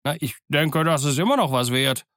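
mildly pleased, hopeful exclamation; lightly voiced glad sailor; somewhat joyful. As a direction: take comfort with a touch of delight. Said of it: "rief Dick mit einer gewissen Freude".

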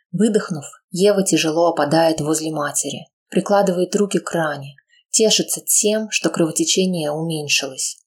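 ordinary delivery

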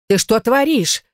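high sharp cry of outrage; indignant yell. Acted. Old neighbour yells at girl barging in, outraged. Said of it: "завопила женщина".

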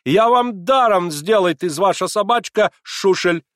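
high, loud generous German; magnanimous German accent. A narrator's reading. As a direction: offer it grandly in broken Russian. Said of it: "в припадке великодушного самоотвержения".

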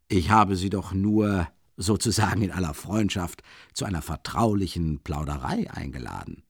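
mock him with false warmth; lightly voiced sly investigator; sly mockery. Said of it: "verschmitzten Spottlächeln".

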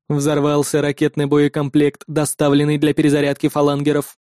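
low, clipped-sparse machine answer; terse android reply. Acted. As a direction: give only the bare facts. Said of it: "скупо ответил андроид".

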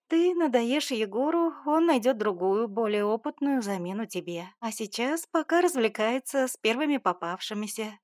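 twist the knife with relish; spiteful mother lecturing daughter; cutting mother. Acted.

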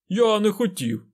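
high, slow tearful wail; bursting into tears. A narrator's reading. Fain breaks into tears before the lord, wailing high. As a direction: break down weeping as you deny it. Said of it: "залився слізьми Фейн".

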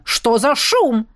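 slow, drawn-out calling; man calling out. A narrator's reading. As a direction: call for your darling as the baron. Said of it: "звал мужчина".

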